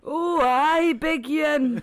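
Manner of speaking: hammed-up Glaswegian impression; Billy Connolly. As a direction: put on a broad, jovial Scottish accent. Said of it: "sound like Billy Connolly".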